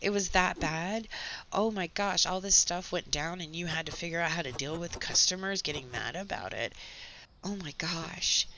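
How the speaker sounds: lightly sarcastic, exaggerated commiseration; mock sympathy. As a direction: feign shocked concern, relishing the complaints. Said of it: "I'm enjoying listening to the complaints".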